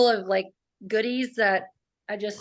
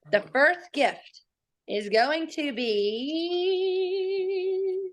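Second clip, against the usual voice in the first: hyped giveaway announcement; 4 semitones higher, much slower than usual. Acted. Giveaway prize reveal.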